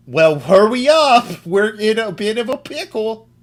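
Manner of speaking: very high-pitched, loud cartoon wolf voice. Recounting a conversation during a game, voicing the other side's reply, cartoon wolf voice. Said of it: "cartoon wolf voice out of that?".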